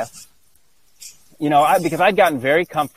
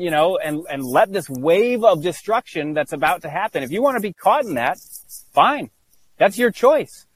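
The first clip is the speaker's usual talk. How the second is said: a raised, stern voice of God, lightly done; mild mock divine warning; 4 semitones higher than usual. Imagined God warns the comfortable man, high and stern. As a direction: warn him like an impatient God.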